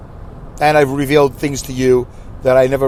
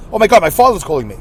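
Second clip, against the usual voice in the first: mock panic; faster than usual. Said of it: "I, I panic".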